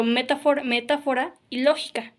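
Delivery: "metáfora" stressed on TÁ, "lógica" on LÓ; stress on antepenultimate syllables. Shown as a demonstration. Teacher giving word examples, third-from-last syllable stressed in "metáfora" and "lógica". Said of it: "la antepenúltima sílaba en donde se acentúa".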